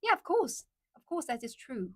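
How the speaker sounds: lilting British agreement; British accent. Shown as a demonstration. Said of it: "in British accent".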